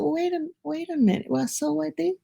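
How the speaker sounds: high, quick mock complaint; imitating his own jealous self; a hint of petty resentment; resentful grumbling. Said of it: "I've said".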